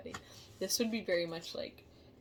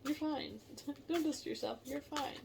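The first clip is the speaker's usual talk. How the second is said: self-soothing; 6 semitones higher than usual. Retold or imitated. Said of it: "My body's like".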